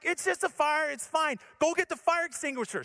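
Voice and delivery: high, hurried-sounding brush-off; mock flustered reassurance. Husband reassuring screaming wife about fire, mildly mock-flustered high voice.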